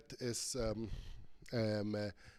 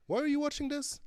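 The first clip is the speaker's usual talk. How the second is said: mock surprise; 6 dB louder than usual. Real, not acted. Joking aside to Jessica.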